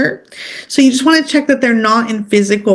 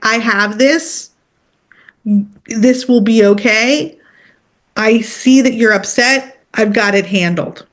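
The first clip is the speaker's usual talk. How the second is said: calm, steady voice. Shown as a demonstration. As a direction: tell the dog you have it handled, unhurried. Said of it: "you heard my voice right then".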